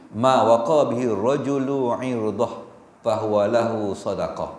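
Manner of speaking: slow, measured Arabic recitation; hadith recitation. Acted. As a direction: chant the hadith slowly.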